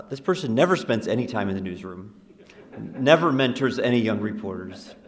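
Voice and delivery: sarcastic mock criticism in an even voice; deadpan sarcasm. Real, not acted. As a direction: say it straight-faced, as mock complaint. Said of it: "I'm being really sarcastic right now".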